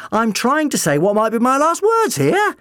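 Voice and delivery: high, loud protest; indignant shout. A narrator's reading. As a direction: demand to be heard over the fight. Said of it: "the doctor shouted".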